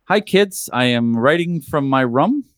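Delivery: put-on John accent. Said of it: "John accent".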